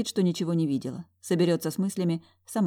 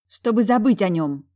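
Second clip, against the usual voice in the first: grumbling; 4 semitones higher, 7 dB louder than usual. A narrator's reading. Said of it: "проворчала она".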